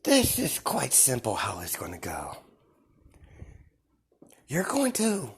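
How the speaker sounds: high, hushed musing; sinister whisper. Acted. Deku musing about cutting himself, whispered and creepy. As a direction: purr it half to yourself.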